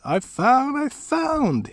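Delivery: very high, ringing calls; excited call. A narrator's reading. Askeladd calling to his brothers, very high call. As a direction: sing out the find gleefully.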